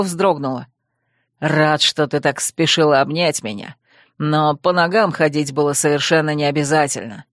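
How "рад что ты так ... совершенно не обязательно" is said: низкий, вибрирующий голос оборотня-парня, обиженный; сыграй мрачного Вервульфа с упрёком; оборотень Койл. Acted. Вервульф говорит с Найкой. (низкий вибрирующий голос оборотня с упрёком)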